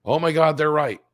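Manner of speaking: high-pitched mock amazement; mock alarmed realization. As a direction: imitate a gullible viewer suddenly convinced. Imitating credulous viewers' reaction.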